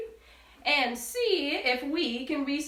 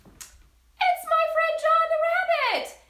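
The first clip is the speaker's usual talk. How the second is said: much higher and louder, slow, big reveal; excited announcement; 11 semitones higher, 5 dB louder, slower than usual. Real, not acted. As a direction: introduce the guest with a fanfare. Announcing puppet guest.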